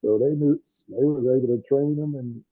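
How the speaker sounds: muffled voice, like a covered mic. Real, not acted. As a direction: talk muffled through a bad earbud. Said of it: "you kinda muffled".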